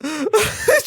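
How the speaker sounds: half-laughing, half-crying whine; mock crying. Real, not acted. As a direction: fake a sob through laughter. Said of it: "Ağlarım ha". (yarı gülerek sahte ağlama)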